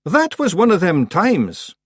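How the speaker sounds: high, slow, pointed Scots; icy patience. Acted. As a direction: spell it out coldly. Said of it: "with icy patience".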